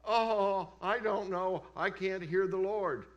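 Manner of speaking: hammed-up I can't hear; mock doubter. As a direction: mimic a doubting churchgoer. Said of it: "Don't sit there and say".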